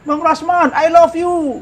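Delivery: high-pitched mock fan yell; menirukan teriakan. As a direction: call out high and drawn-out, imitating a shouting admirer. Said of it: "datang teriak-teriak". (teriakan tiruan bernada tinggi)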